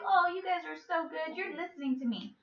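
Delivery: mildly voiced proud mother; pleased mom. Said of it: "So she's happy".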